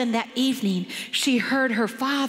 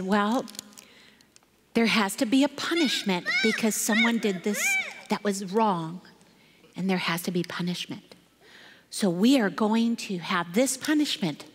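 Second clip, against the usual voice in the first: lower, measured, grave delivery; stern father; 4 semitones lower than usual. Retold or imitated. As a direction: announce it gravely, with pauses. Father solemnly announces punishment.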